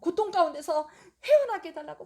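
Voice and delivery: pleading prayer. Retold or imitated. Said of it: "입만 쫑글쫑글쫑글 하면서".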